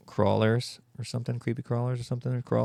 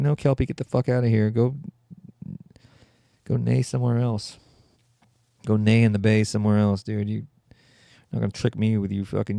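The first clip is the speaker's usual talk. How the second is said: annoyed shouting; 4 dB louder than usual. Pretend. Shouting away the Kelpie.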